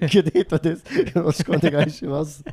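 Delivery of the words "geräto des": laughing, louder, put-on Japanese ending; mock Japanese. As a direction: giggle through a fake Japanese 'des'. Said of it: "repeats mock Japanese".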